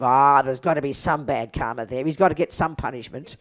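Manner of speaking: vindictive. Retold or imitated. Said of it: "But we are very vindictive".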